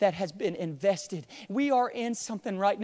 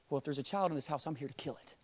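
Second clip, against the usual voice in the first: menacing soldier; 4 semitones lower, 8 dB quieter, faster than usual. Acted. Soldier voiced in story.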